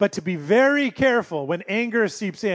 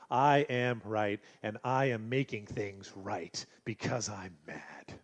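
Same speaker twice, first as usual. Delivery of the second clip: smug self-justifying; 8 semitones lower, 10 dB quieter, slower than usual. Retold or imitated. Voicing self-justified anger.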